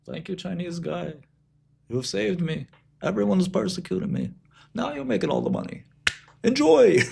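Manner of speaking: put-on high sing-song Yiddish accent. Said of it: "Jewish people are like".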